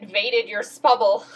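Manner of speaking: spubble said through a laugh; laughing repeat. Real, not acted. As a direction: repeat the slip while cracking up. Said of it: "You what?".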